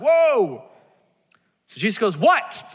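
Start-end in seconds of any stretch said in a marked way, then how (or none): 0.0-0.6 overwhelmed whoa. Retold or imitated. Overwhelmed by the mob. 2.2-2.6 startled what. Retold or imitated. Jesus startled by the mob.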